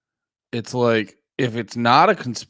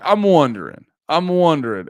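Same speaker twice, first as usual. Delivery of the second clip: mock musing; 6 semitones higher, 6 dB louder than usual. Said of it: "I just was like".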